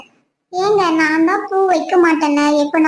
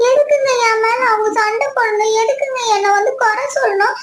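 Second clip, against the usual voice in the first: acted crying, pitched a little up; tearful protest; 3 semitones higher than usual. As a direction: wail the hurt questions through mock tears. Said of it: "இப்ப நீ எதுக்குடி அழுதுட்டு இருக்க?".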